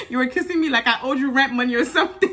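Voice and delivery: quick retold quote through laughter; cracking up. Retelling a forcefully kissed boy's complaint, laughing. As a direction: laugh while quoting the line. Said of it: "Shannon cracks me up".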